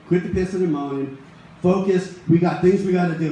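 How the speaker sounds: a firm father cutting off the whining; dad mode. Retold or imitated. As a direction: snap into no-nonsense dad mode. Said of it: "I go into dad mode when these things happen".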